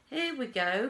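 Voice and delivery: high, loud launch; excited cry. A narrator's reading. Wonka crying out as he starts the machine, excited. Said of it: "cried Mister Wonka".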